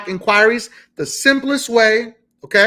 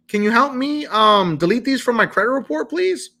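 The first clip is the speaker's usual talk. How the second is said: pleading ask; 4 semitones higher than usual. Shown as a demonstration. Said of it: "I was like".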